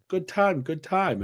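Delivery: coaxing come-on in a put-on high voice; high mock sales pitch from a woman touting on the street; soliciting woman.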